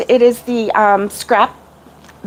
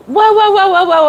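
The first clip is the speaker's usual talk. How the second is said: startled waking gasp; 8 semitones higher, 3 dB louder than usual. Retold or imitated. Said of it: "I would, like".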